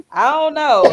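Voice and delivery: ordinary delivery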